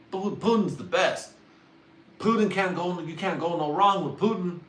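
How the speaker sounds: a hint of a guy gushing over Putin; half-hearted impression of a clueless fan. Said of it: "This is my impression of someone who doesn't know Putin".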